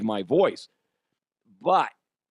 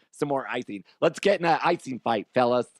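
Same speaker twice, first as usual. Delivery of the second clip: flamboyant dad. Pretend. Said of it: "He's very flamboyant".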